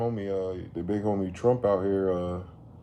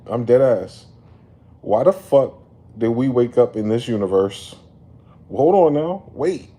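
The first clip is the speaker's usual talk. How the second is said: exasperated disbelief; 3 semitones higher, 9 dB louder than usual. Real, not acted.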